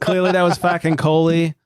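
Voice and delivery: light hammed-up Boston accent. Host playing up the podcast's Boston voice, Boston accent. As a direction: lean into a playful Boston accent. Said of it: "Boston accents I've ever heard".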